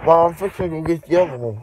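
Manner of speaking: calling across the house to mom. Real, not acted. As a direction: raise your voice to reach mom.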